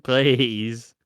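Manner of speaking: slow, drawn-out begging; hammed-up plea; mock pleading. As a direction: beg mum with a stretched-out please. Acted begging to mum.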